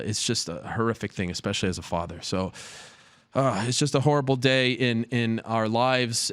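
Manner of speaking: real grief, voice catching and slowing; holding back tears while speaking of a father's loss; choked-up, halting words; getting emotional. Real, not acted. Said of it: "I'm sorry I'm getting emotional".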